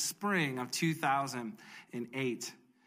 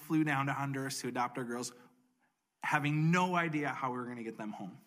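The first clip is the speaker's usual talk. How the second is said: ordinary delivery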